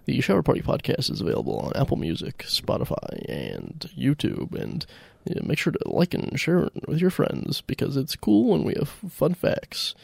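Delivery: hyped podcast plug, lightly voiced; podcast ad read. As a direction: sell the podcast like a host. Mock podcast host intro.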